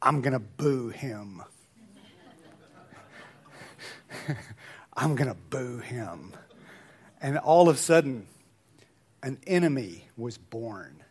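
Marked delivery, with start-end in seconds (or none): 0.0-6.3 put-on gritty small boy's voice. Quoting a five-year-old son on a walk, imitating his gritty voice. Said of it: "kind of with grit in his voice".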